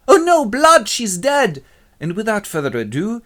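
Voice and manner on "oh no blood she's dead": high, loud wail of grief; hammy horror. Acted. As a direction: cry out in overacted despair. Pyramus finds bloody veil.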